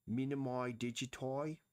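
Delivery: "Minimi digiti" with the endings bent to "oy", rising like a question; terrible put-on accent. Shown as a demonstration. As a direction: ham up a foreign-sounding accent on "Minimi digiti", badly. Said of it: "That was a terrible attempt at an accent".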